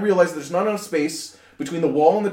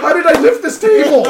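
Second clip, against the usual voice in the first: baffled; 9 semitones higher, 7 dB louder than usual. Retold or imitated. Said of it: "I'm like".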